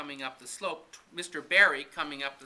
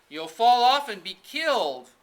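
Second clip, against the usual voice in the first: higher and louder, a frightened warning; alarmed cry; 8 semitones higher, 11 dB louder than usual. Acted. Girl warning Anne she will fall, frightened cry. Friend fears fall from roof.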